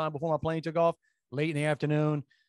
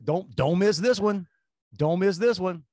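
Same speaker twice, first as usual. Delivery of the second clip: louder, slower call after him; 4 semitones higher, 4 dB louder than usual. Retold or imitated. Calling after departing drunk guy.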